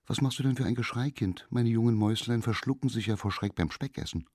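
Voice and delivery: leicht gespielte Maus, schnell und hastig; fragende Maus. Acted. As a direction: eine aufgeregte kleine Maus, flink gesprochen. (Maus fragt das schreiende Kind hastig)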